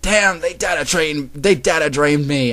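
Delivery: dramatic cry of dismay; pained outcry. A narrator's reading. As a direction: groan out the defeat loudly. Konata cries out after being hit.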